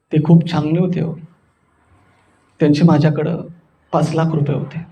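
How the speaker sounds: low, halting condolence voice; acted mourning. Shown as a demonstration. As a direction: speak low of someone just departed. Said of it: "शोक कसा असतो एखादा गेल्यावर".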